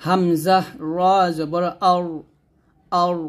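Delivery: আউর with a heavy, rounded r; thick ra. Shown as a demonstration. Teacher modelling thick ra for learners, heavy ending. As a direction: spell it out, making the r of আউর full-mouthed. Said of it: "এরকম মোটা করবেন".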